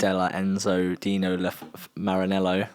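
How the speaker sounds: Italian read with a very British accent; British-sounding Italian. Real, not acted. Host stumbling through the circuit's name, British-accented Italian. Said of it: "Very British Italian accent you got there".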